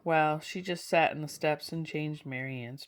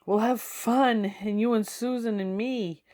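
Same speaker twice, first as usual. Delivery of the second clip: put-on excited child; 6 semitones higher, 4 dB louder than usual. A narrator's reading. Boy telling his dog about the visit, eager and thrilled. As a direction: promise fun like a thrilled little boy.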